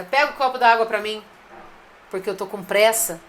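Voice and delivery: curt, hurried demand; a rushed boss telling the producer to fetch water, brusque; brusque order. Retold or imitated. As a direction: snap out the request like a rushed boss. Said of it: "Poxa, que grossa".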